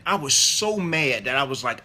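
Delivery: normal talking voice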